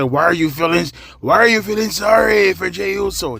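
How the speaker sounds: horrible, terrible fake Scottish accent. Describing a wrestling angle, voicing his promo in a bad Drew McIntyre Scottish accent. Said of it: "that was a horrible Scottish accent".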